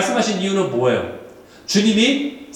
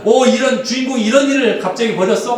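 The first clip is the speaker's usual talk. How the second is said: acted gasp of discovery, higher pitch; mock astonished question, pitched up; surprised viewer; 5 semitones higher than usual. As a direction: react to a shocking plot twist. Imitating viewer shocked by twist.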